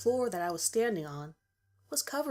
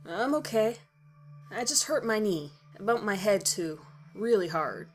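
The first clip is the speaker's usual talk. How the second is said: reassuring; 2 semitones higher, 3 dB louder than usual. Acted. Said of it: "reassured Steve".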